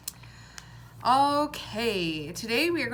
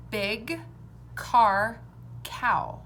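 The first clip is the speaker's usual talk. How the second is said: loud, slow word list; sounds clearly shown; 4 dB louder, much slower than usual. Shown as a demonstration. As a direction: say each word clearly for the class. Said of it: "Which one has a different beginning sound?".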